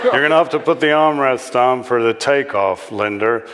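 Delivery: lightly voiced American dad; warning American father. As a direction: warn the daughter as an American father. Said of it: "Linda's father warned her".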